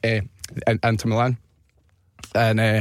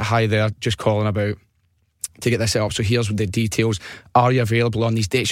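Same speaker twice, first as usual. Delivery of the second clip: put-on Northern Irish accent. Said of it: "did, like, a Northern Irish accent".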